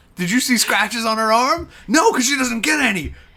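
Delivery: put-on angry snapping voice. Retelling how Richard snapped at Caitlin about tracking her: imitating Richard angrily snapping. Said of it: "snapping at Caitlin".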